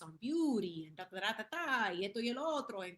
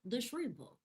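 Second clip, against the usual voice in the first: quirky pet pronunciation; 3 semitones higher than usual. Shown as a demonstration. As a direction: relish the silly word shrimpo. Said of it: "I wanna say it like that".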